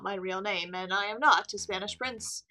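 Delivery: lightly voiced, composed impostor; unmasked impostor. Prisoner admitting his false identity, composed. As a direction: confess with measured formality. Game character Juan confesses.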